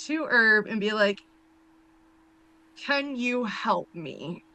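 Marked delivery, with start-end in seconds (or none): 2.8-4.4 slow, softer plea; very reluctant. Acted. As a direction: ask slowly and quietly, against your will. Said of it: "She is very reluctant".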